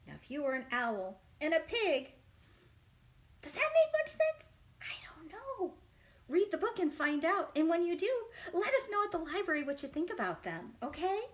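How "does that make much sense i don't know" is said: whisper. Real, not acted. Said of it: "whispered tease".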